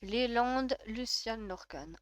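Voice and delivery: Léland, Luciane, Lorcan spaced out, dropping away softly; Léland, Luciane, Lorcan as a falling list; stylish pronunciation. Shown as a demonstration. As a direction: sound out Léland, Luciane, Lorcan with final consonants pronounced. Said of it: "c'est très stylé comme ça".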